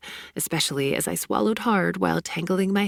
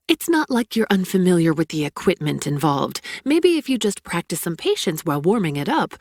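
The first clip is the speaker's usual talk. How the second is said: louder, biting rant; angry rant; 4 dB louder than usual. Acted. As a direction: hurl it at him in a fury. Heroine ranting back, louder.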